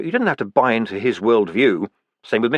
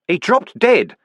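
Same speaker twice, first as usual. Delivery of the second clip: shouting; 10 semitones higher, 4 dB louder, slower than usual. A narrator's reading. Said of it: "Vimes shouted".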